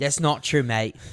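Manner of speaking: mangled mock British protest; bad British accent. Denying co-host's insult, bad British accent. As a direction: argue back in a hammed-up British accent. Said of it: "Your British accent is even worse".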